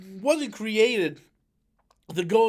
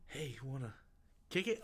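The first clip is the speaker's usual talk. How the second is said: mocking the actress; 8 semitones lower, 16 dB quieter, faster than usual. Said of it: "It's like".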